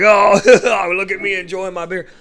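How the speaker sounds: loud, high, laughing brag; smug gloating. Retold or imitated. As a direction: rub it in with a chuckle. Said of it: "So I don't ever go like".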